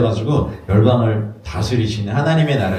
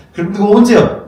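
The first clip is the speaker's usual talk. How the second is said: put-on pestering child voice; 10 semitones higher, 6 dB louder than usual.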